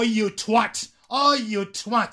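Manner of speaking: "you twat" pushed out after a long "Oh"; emphatic insult. Shown as a demonstration. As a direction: draw out "Oh", then hit "you twat". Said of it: "Se dice así". ("Oh, you twat" enfático y alargado)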